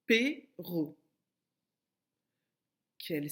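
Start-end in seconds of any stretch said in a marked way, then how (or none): 0.1-1.0 "Perro" as two separate syllables. Shown as a demonstration. Teacher gives the shortened word, "Perro" split into syllables. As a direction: break "Perro" in two with a clear pause. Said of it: "J'enlève une syllabe".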